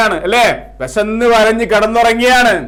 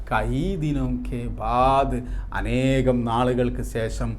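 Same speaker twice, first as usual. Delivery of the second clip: drawn-out phrases, strong calls then hushed refrain; poem recitation; slower than usual. Acted. Teacher reciting the second stanza to students, measured poem recitation.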